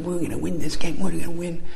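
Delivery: put-on a kid sure his team will win; enthusiastic kid. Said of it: "totally enthusiastic".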